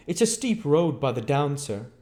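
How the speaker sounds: high, chattering landlady voice; lightly rustic landlady gabbling on; Mrs Hall's voice. A narrator's reading.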